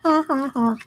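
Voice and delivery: high, spelled-out mock laughter; dry, fake ha-ha-ha; sarcastic fake laugh. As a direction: pretend it's hilarious, unamused. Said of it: "So funny, I forgot to laugh".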